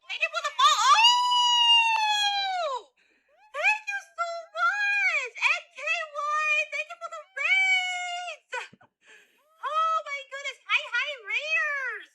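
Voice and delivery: squealing, high and very loud thanks; cute anime streamer. Real, not acted. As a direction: gush over the raiders, drawn out. Streamer greeting incoming raid.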